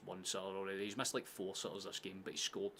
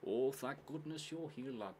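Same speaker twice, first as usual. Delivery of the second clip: slower, higher Midlands English voice; Midlands accent; 4 semitones higher, slower than usual. Acted. Greeting a lad on arrival, put-on Midlands accent. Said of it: "the Midlands in England".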